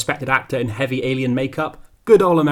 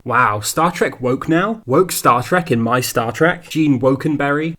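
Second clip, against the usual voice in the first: slow, sarcastic mock outrage; 4 dB louder, slower than usual. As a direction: drag it out, mocking the complainers. Mocking anti-woke outrage.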